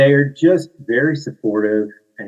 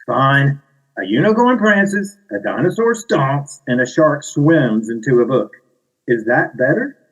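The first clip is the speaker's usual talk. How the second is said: exasperated, giving in, high on unicorn; grudging narrator; 4 semitones higher than usual. Acted. Narrator gives in to characters, grudging exasperated read. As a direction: give in with a sigh.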